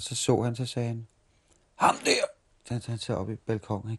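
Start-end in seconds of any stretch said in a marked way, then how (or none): 1.7-2.3 a mock shouted call, breathy and loud; imitating a shout. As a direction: bark it out like the old circus boss spotting someone. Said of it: "sådan lidt råbende hele tiden". (efterlignet råb, luftigt og højt)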